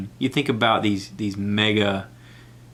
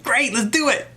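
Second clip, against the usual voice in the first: higher, put-on breezy voice; mock cool reply; 13 semitones higher than usual. Answering Bert's imagined request, mock-casual. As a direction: play it casual. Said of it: "I'm like".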